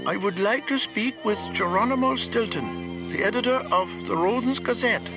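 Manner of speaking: high, far-off caller on the line; faint phone voice. A narrator's reading. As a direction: speak as a distant professor over the telephone. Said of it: "I could just make out a voice".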